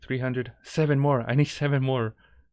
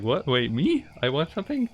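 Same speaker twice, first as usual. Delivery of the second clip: stunned surprise; 5 semitones higher than usual. Retold or imitated. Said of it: "I'm just sitting there like".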